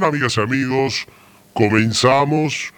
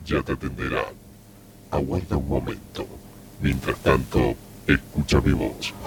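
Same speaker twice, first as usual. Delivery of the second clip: voz sensual; 10 semitones lower, 7 dB quieter than usual. Pretend. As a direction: purr it low like a seductor. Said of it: "Qué sensual, ¿no?". (voz sensual grave y lenta)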